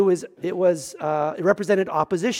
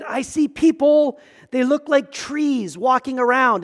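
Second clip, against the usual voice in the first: lightly acted, slow and higher, puzzled; blind man squinting; 3 semitones higher, slower than usual. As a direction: peer at blurry shapes, stretching the words.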